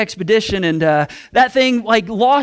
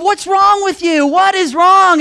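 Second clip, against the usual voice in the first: 1 self-scolding shout; 9 semitones higher, 5 dB louder, slower than usual. Retold or imitated. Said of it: "I thought to myself".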